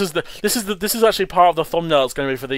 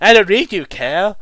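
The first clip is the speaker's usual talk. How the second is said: high mock character voice; 6 semitones higher, 6 dB louder than usual. Voicing the cartoon characters.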